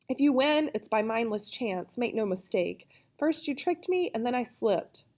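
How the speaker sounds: a touch of a whimper in a protest; whimpering whine. Acted. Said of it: "whispering, whimpering, whining".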